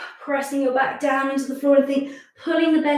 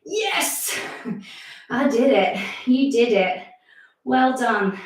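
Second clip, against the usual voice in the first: cheering; much slower than usual. Shown as a demonstration. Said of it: "take a nice deep breath and say".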